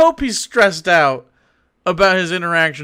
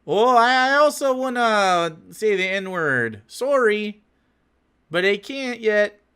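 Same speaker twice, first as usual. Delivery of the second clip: mock Wisconsinite; 3 dB quieter than usual. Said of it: "That's not how Wisconsinites sound".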